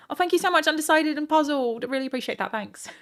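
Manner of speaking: high-pitched, excited gratitude; gushing thanks. Real, not acted. Streamer thanks a supporter by name, gushing. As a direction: burst out high, then ease off.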